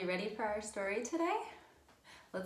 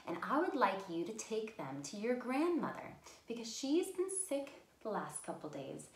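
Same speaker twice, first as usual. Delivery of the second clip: story narration. Acted. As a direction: read the tale gently to little listeners. Reads a fairy tale.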